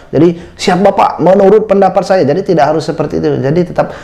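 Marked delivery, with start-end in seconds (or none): 0.6-2.2 higher, stiff soldier-style reply; military style. Shown as a demonstration. Candidate answering the interviewer like a soldier, stiff military reply. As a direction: answer like a recruit reporting to an officer. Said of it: "seperti militer".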